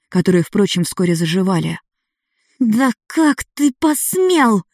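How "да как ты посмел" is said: shrieking. A narrator's reading. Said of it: "взвизгнула она".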